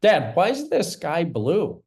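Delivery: put-on curious child. Child questioning dad, acted scene.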